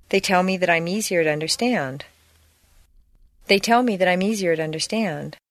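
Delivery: quick, unbroken run through THAT I'M EASIER TO UNDERSTAND; linked words. Shown as a demonstration. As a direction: run THAT I'M EASIER together fast, like one word. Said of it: "should be pronounced exactly the same".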